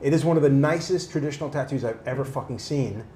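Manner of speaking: heated, emphatic retelling of a rant; retold rant. Client threatening to leave the tattooer, mildly ranting. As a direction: build a mild tirade, punching the swear words. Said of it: "I started going into a rant".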